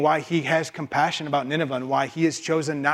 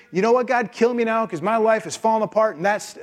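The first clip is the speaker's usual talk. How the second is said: hammed-up tantrum that trails off into a sulk; a put-on fit of pique, ending deflated; mock angry Jonah; 2 semitones higher than usual. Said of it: "He is so angry".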